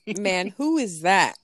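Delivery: baffled, drawn-out question; mildly disbelieving, as in "what are you on about"; incredulous. Retold or imitated. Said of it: "What are you talking about?".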